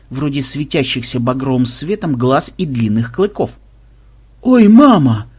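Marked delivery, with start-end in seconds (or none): 4.4-5.3 dismayed wail. Acted. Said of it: "тоскливо проговорил кто-то".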